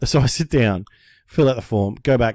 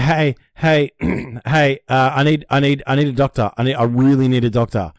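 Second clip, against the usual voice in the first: louder, urgent begging for a doctor; panicked plea; 3 dB louder than usual. Retold or imitated. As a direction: plead at the counter, rattled. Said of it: "I was freaking out".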